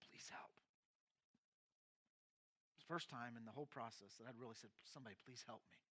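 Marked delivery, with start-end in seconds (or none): 0.1-0.5 soft, near-silent plea for help; broken plea. Retold or imitated. Crying on pastor's shoulder. 4.8-5.8 much softer, faint cry for help; broken plea. Retold or imitated. Breaking down, asking help.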